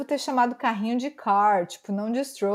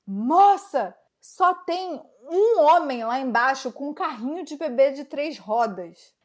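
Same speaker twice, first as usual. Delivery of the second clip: emphatic, increasingly high retold reply; exasperated explanation; 4 semitones higher, 3 dB louder than usual. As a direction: spell it out, building to a high, loud protest. Retold emphatic reply to shouting woman.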